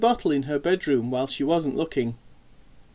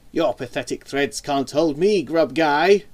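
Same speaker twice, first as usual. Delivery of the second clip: mild yell, building louder at the end; defiant yell; 5 dB louder than usual. A narrator's reading. Armadillo hero defying Grub Guy from the cocoon, yelling. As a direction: build to a defiant superhero shout. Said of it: "yelled Armadillon".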